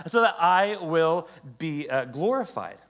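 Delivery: booming repeat of the quote. Acted. Repeats God's words louder.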